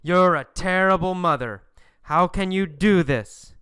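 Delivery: mildly acted protest, settling by the end; a touch of outraged complaint; ranting and yelling. Boys rant at their mother, mildly yelling. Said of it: "They rant and rave and yell".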